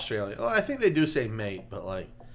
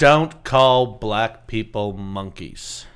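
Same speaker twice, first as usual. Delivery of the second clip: mock Howard Cosell PSA; 8 dB louder, much slower than usual.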